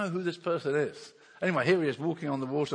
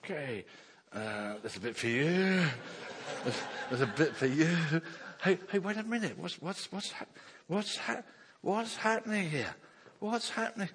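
imagined Peter; 3 semitones higher than usual. Retold or imitated. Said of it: "I can imagine Peter going".

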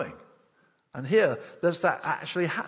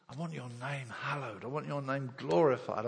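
prayerful; 4 dB quieter than usual. Real, not acted. Prayerful longing in sermon.

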